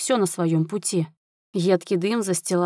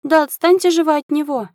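high, loud, desperate yell; countess's exasperated high-pitched cry; frantic shout; 9 semitones higher, 6 dB louder than usual. A narrator's reading. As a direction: shout helplessly to protect your son. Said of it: "кричала графиня".

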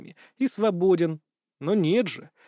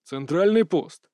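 slow, firm call into the intercom; boss calling; slower than usual. Acted. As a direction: summon the post curtly. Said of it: "сказал Вилкон". (начальник вызывает пост)

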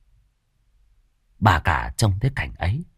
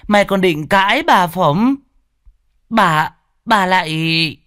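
high and loud, scolding; furious screech; 12 semitones higher, 4 dB louder than usual. A narrator's reading. Mistress glares and screeches at the servant. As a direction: snap back at the servant with rage. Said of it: "Bà cả trợn mắt".

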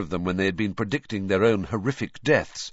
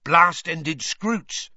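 eager, slow and raised; said eagerly; 9 semitones higher, 5 dB louder, much slower than usual. A narrator's reading. Hagrid eagerly correcting Rita, slow and raised. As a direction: correct her gladly and eagerly. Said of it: "Hagrid said eagerly".

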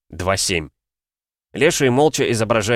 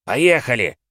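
shouted; 4 semitones higher, slower than usual. Acted. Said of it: "крикнул Михась".

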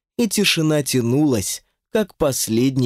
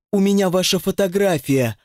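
shouted; 6 semitones higher than usual. Acted. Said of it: "закричала Ирина".

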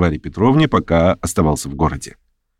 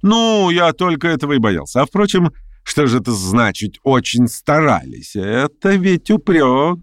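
higher, quick eager busybody; fussy chatterer; 5 semitones higher than usual. Acted. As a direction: chatter on, pleased with himself. Pyotr Stepanovich voiced. (суетливый болтун, высоко)

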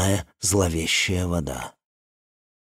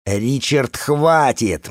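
sharp loud call to stop; shouting; 4 semitones higher, 3 dB louder, much slower than usual. Acted. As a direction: yell his name to stop him. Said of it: "Мы крикнули это хором". (громкий окрик)

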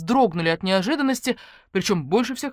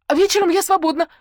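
much higher and louder, blurted; 12 semitones higher, 8 dB louder than usual. Acted. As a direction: blurt it out flirtily. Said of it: "выпалила я". (выпалила с вызовом)

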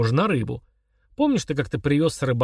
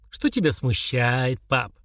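sympathetic; slower than usual. Acted. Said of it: "с участием осведомился Артур".

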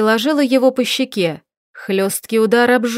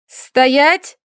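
commanding shout; 4 semitones higher, 3 dB louder than usual. A narrator's reading. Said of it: "командовала Маша".

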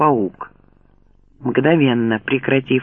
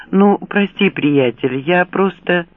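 timid apology; 3 semitones higher than usual. Acted. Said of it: "испуганно посмотрев".

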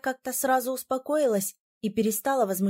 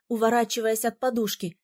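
ordinary delivery, nothing marked

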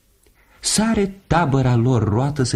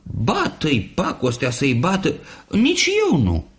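shouting geese; 8 semitones higher than usual. Acted. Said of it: "strigau deodată".

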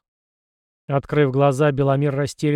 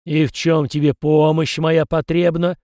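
louder, slow, curious spirit voice; interested; 2 semitones higher, 5 dB louder than usual. Acted. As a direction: lean in with interest. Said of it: "заинтересовался голос". (с интересом, медленно)

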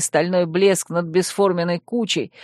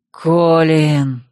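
shout; 4 dB louder than usual. Acted. Hero cries out seeing captured friend.

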